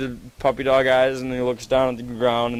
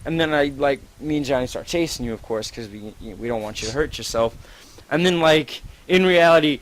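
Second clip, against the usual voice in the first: normal talking voice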